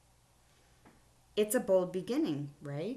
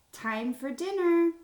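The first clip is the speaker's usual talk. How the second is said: much higher, louder, slow call downstairs; mom yelling; 11 semitones higher, 7 dB louder than usual. Shown as a demonstration. Teacher acts mom yelling time for dinner. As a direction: sing it out like mom calling the kids. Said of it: "Mom yelled down to us".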